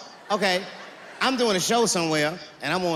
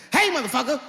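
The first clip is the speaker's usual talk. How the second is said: menacing threat; 7 semitones higher than usual. Acted. Threatening intruder with shotgun.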